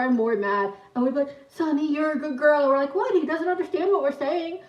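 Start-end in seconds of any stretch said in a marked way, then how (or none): 1.5-2.6 high-pitched mock pet talk; dog-praising voice. Sisters teasing mom through the dog, playful pet talk. 2.9-4.6 high-pitched mock innocence; feigned innocence. Sisters answering annoyed mom, mock innocent.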